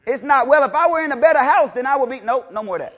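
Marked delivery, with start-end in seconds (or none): 0.5-2.2 lightly voiced whiny excuse, higher and louder; mock excuse. Preacher imitating an excuse-maker, mock whine. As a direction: mimic a believer making excuses.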